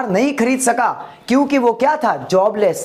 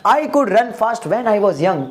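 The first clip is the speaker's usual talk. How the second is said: slow English, only lightly voiced old grandfather; slow grandpa line; much slower than usual. Grandfather answers his grandson slowly. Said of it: "दादाजी ने क्या बोला?".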